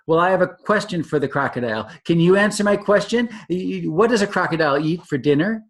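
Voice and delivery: lightly voiced excited young elephant; eager baby elephant. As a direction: play the curious baby elephant.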